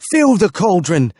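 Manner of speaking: high, loud battle cry; cried out. A narrator's reading. Smith commands his men, loud cry. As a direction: shout it to the troop. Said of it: "cried Elric".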